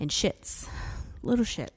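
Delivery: whispered mock aside; little shits, whispered; whispered swear. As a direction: hush it like a naughty secret. Joking about kids.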